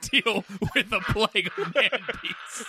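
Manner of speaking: put-on old sci-fi announcer. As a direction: intone it like an old sci-fi opening. Mock movie opening narration.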